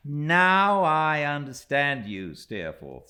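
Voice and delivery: slow, high and loud in triumph; an excited young narrator cheering his friend; exultingly. A narrator's reading. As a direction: crow with delight at the discovery. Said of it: "said I exultingly".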